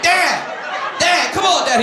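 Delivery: high whiny pleading; pleading whine. Retold or imitated. Embarrassed son whining at his dad, high and pleading. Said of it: "I'm like".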